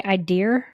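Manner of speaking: IDEA ending in an R sound; imitated pronunciation. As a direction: say IDEA as "eye-DEER". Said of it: "Did you just say".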